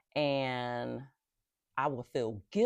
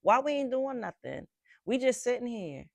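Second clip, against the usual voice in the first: complaining nervous system; 5 semitones higher than usual. Retold or imitated. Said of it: "my nervous system, like".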